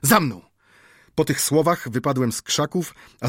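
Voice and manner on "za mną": called out. A narrator's reading. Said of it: "zawołałem".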